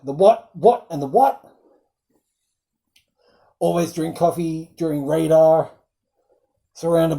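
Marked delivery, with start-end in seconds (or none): 0.0-1.4 quoting confused characters. Retold or imitated. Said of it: "they're like".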